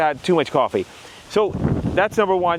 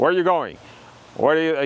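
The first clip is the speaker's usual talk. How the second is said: flat, quick monotone interrogator voice. Coaching salespeople on tonality, showing a bad example in a passport-office interrogator voice. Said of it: "like an interrogator at the passport office".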